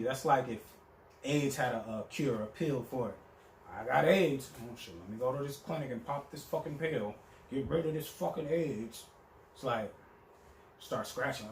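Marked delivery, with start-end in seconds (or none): 3.7-9.0 mock casual girl. Mocking the casual attitude.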